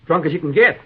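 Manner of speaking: a brother loudly pulling his sister into it; bitter loud retort. Acted. Brother admits their father was drunk.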